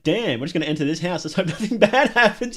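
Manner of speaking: hammed-up careless victim talk; mocking horror movie characters. Mocking horror movie heroes walking into danger, lightly voiced. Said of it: "horror movies be like".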